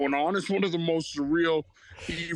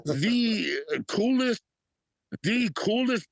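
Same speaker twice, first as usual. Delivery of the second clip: laughing; 7 semitones higher, much slower than usual. Real, not acted. Gushing about meeting E forty.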